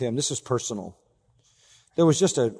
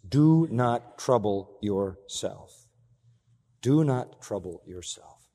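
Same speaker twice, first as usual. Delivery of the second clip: slow, deliberate; 3 semitones lower, much slower than usual. Shown as a demonstration. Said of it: "such a straightforward statement".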